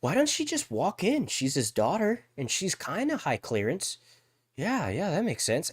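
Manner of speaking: hammed-up writers' room logic; mock writers. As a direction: play a clueless writer talking himself into it. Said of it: "they're just like".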